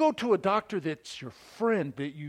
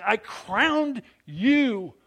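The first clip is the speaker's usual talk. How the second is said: voice of God; 6 semitones higher, 7 dB louder, much slower than usual. Acted. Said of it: "it's God saying".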